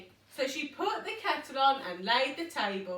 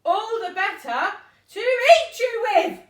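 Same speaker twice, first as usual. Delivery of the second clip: much louder, higher pouncing wolf; menacing wolf roar; 10 semitones higher, 12 dB louder than usual. Acted. Wolf lunging at the girl, loud and high. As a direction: boom it to make them jump. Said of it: "said the wolf".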